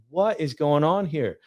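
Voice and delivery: mock a dad losing patience, stretching the words; mildly heated, slow and incredulous; frustrated dad. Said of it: "I'm getting frustrated".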